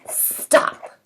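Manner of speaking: whispered stop; a hushed royal command to halt; king hushing them. Retold or imitated. Teacher as king, whispering stop to colonists.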